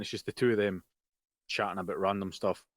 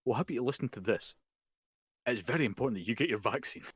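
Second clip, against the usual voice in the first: a hint of an eager radio ad, listing genres; mock radio advert; 2 semitones higher than usual. Mocking an iHeartRadio advert to his co-host, mild hammed-up ad voice. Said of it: "this is how the advert went".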